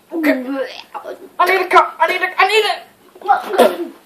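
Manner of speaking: disgusted whimper. Real, not acted. Disgusting canned dog food bean.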